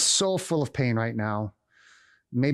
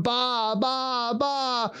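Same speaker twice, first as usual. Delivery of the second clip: high, imitated sheep baas; bleating sheep; 8 semitones higher, much slower than usual. Scared sheep following one another, bleating high. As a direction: mimic a flock bleating one after another. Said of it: "all the sheep are going".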